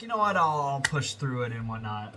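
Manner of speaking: punchy retold pep talk to yourself; retold resolve. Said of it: "and I'm like".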